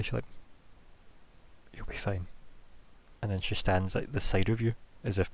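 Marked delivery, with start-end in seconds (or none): 1.7-2.3 soft, gentle reassurance; quiet. Acted. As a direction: say it quietly, kindly. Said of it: "just says to you very kind of quietly".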